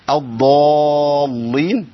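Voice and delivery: الضالين with the ل wrongly thinned, stretched slowly; wrong thin lam. Shown as a demonstration. Teacher showing students the wrong light lam. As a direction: demonstrate the mistake, lam too light. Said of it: "ما ينفعش".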